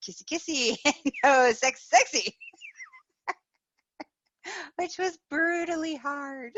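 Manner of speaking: laughing through the words; giggling. Real, not acted. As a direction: giggle while you say it. Giggling about no sex.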